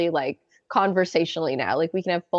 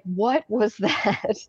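laughing disbelief; much slower than usual. Retold or imitated. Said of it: "I freaked out so much".

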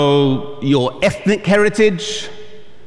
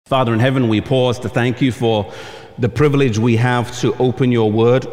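prayer; 6 semitones lower than usual. Acted. Opening prayer before sermon.

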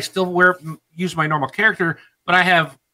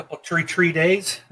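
put-on Chicago accent. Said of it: "It's that Chicago talk".

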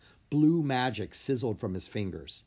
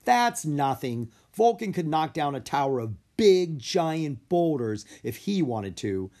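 boastful cry; 4 semitones higher, 4 dB louder than usual. Acted. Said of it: "she cried".

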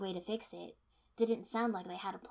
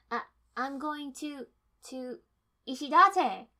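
panicked cry; 7 semitones higher, 12 dB louder than usual. Acted. Panicked cry for fallen comrade.

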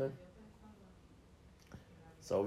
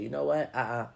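gracious forgiver; faster than usual. Retold or imitated. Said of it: "You say".

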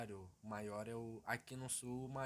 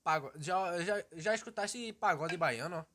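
slow, louder Bahian drawl; Bahian accent; 4 semitones higher, 9 dB louder, slower than usual. Pretend. Bahian accent, asking the host about pagode. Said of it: "imitar baiano".

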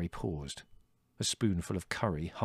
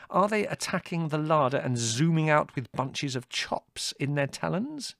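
sarcastic inquiry; 9 semitones higher, 4 dB louder than usual. A narrator's reading. Larry's sarcastic inquiry continues.

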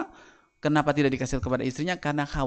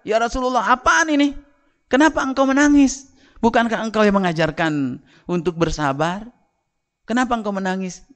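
anguished questioning; 9 semitones higher, 5 dB louder than usual. Acted. Companion questions the weeping Prophet.

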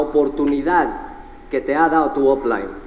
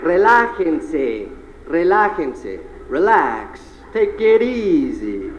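soothing; much slower than usual. Real, not acted. Calming the crowd after cheering.

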